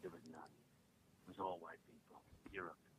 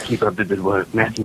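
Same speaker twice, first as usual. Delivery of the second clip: loud celebrity sign-off; 17 dB louder than usual. Pretend. Caller signs off in voice.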